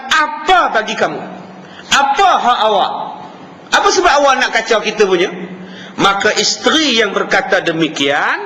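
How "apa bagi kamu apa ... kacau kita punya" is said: rude reply. Retold or imitated. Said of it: "Dengan perkataan".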